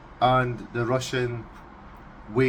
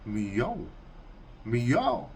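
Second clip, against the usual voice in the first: meow sound; 3 dB quieter than usual. Shown as a demonstration. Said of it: "for the Russians it's".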